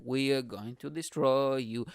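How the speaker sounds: drawn-out mock menace; mock media threat. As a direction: spell out the threat slowly. Voices media attack, first take.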